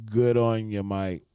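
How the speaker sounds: playful Aussie sign-off; lightly put-on Australian accent. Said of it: "Hit him with that Australian talk".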